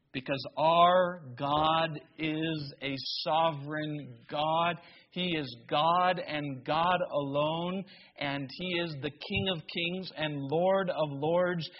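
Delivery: ordinary delivery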